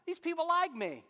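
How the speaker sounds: cat scheming against the owners. Retold or imitated. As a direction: plot it like a sly cat. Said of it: "he's like".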